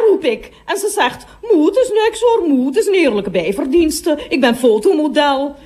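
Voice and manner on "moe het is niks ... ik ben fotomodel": put-on lightly raised girlish reply; mildly voiced daughter soothing her mum; a hint of the daughter. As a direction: play the daughter brushing it off, a bit higher. Daughter answers her mother.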